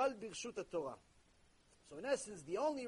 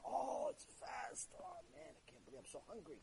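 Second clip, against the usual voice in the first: breathy, whimpering complainer who fades to nearly nothing; whiny congregant; 8 dB quieter than usual. Retold or imitated. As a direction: mimic a hungry man's self-pitying moan. Mocking congregant who misreads the fast.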